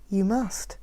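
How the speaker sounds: soft, insistent reply. Acted. The woman softly insisting Mac must judge. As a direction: answer gently but firmly. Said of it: "her voice softer".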